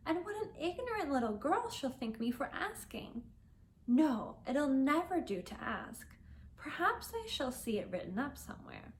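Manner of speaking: put-on young Alice, boasting brightly to herself; Alice's voice. Alice worries aloud.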